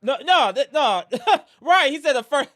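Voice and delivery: laughing disbelief at a viewer's comment; laughing protest. Real, not acted. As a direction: crack up while you correct him.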